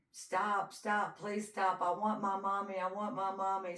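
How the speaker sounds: retold child's desperate begging; imitated child begging. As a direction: plead high like a frightened child. Child begging her attacker.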